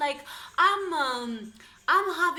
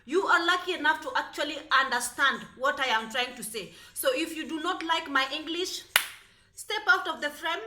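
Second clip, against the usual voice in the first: louder, higher, sassy scolding; sassy telling-off; 4 semitones higher, 4 dB louder than usual. Real, not acted. To critics of her English, a sassy loud telling-off. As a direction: put the critics in their place.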